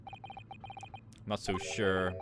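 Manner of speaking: very slow, soft doubtful murmur; suspicious drawl. Acted. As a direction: drag it out with suspicion.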